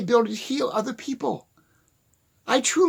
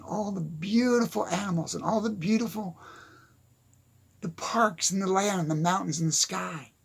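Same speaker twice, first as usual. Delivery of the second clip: soft whispered list; 5 dB quieter than usual. Real, not acted. To viewers, whispering about the beauty of nature. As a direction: breathe the words out in a whisper.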